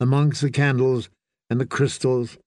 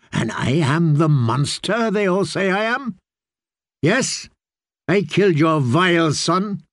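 higher, venomous tirade; malicious rant; 5 semitones higher than usual. Acted. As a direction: hurl the accusations to wound. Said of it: "he snarled in a voice thick with malice".

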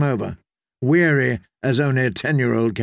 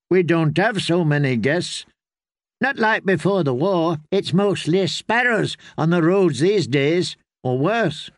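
put-on higher-pitched, plain-spoken child innkeeper; girl's voice, matter-of-fact and guarded; wary young girl; 5 semitones higher than usual. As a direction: answer the strangers like a weary girl. Willow explains the scarce guests.

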